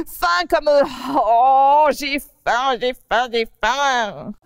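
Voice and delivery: a rabbit pleading it's starving; whiny hungry rabbit. Acted. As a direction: lapin qui réclame à manger. Rabbit Bidou insists he's hungry.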